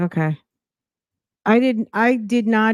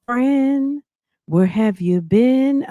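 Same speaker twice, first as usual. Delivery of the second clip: sarcastic; 6 semitones higher, slower than usual. Retold or imitated. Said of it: "I'm like".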